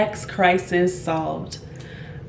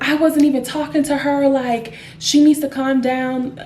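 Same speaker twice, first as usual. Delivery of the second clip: upset protest; 5 semitones higher, 3 dB louder than usual. Retold or imitated. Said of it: "is getting upset".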